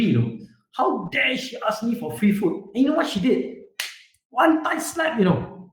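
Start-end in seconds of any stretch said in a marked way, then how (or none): 0.7-2.7 mock outrage, pitch lifted; indignant anger. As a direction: act out an offended shopkeeper's anger. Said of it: "this man got very angry".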